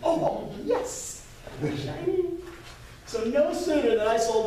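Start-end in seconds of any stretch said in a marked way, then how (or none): 0.0-2.2 high, giddy, laughing glee; squealing mock greed for the shiny coin; gleeful delight. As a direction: gloat over the coins like a thrilled kid. Delighted after selling a drawing.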